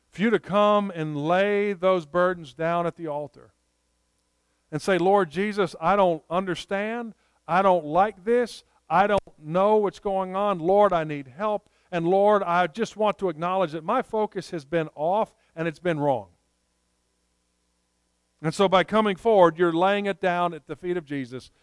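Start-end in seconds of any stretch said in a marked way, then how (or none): 5.0-16.3 modelled prayer. Shown as a demonstration.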